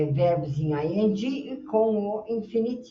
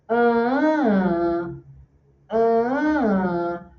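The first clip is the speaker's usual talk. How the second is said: "Ah, ah" hummed out as long notes, higher then falling; musical stress pattern; 3 semitones higher than usual. Shown as a demonstration. Teacher drills the word's melody with students, musical stress pattern. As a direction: sing "Ah, ah" as sustained, raised vowels tracing the word's melody. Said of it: "tem uma musicalidade assim".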